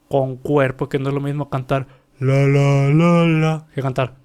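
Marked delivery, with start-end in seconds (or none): 2.2-3.7 thin la without body. Shown as a demonstration. Coach showing students the wrong, bodiless la. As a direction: sing it thin, larynx up. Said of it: "la segunda se escucha con cuerpo".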